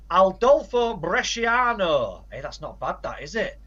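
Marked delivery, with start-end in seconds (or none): 0.1-2.2 slow, rolled Italian accent on Adolfo Bresciano. Shown as a demonstration. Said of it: "My Branzone Italian accent there".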